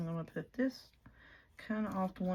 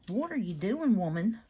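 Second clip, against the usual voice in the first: louder playful self-scolding; mock scolding; 7 dB louder than usual. Real, not acted. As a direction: tease yourself for the mess. Scolds herself over glue.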